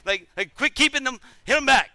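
high-pitched exasperated complaint; acting out a fed-up tennis partner; frustrated. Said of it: "he's getting frustrated".

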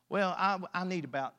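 dry, low sarcastic reply; mock-willing, with understated sarcasm. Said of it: "I say that sarcastically".

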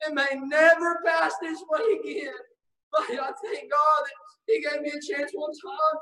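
shouted words cracking with tears; tearful preaching. Real, not acted. Preacher recalling being saved, tearful shout. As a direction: let the tears break through the shout.

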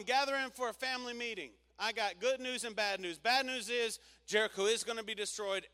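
rally the family like a mother; Rahab calling her family. Acted.

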